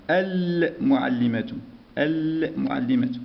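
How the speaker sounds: المعلمة with the l clearly sounded and held; moon-letter reading. Shown as a demonstration. Teacher showing how it is read, lam sounded slowly. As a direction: draw out the l in المعلمة before the m. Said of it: "هنا كيف نقرأ؟".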